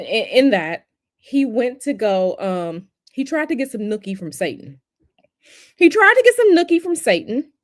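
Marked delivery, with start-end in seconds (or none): 5.8-7.5 much higher, louder cartoon impression of the president; mock South Park president. Streamer repeats the South Park line as the cartoon president. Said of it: "mocking the current president".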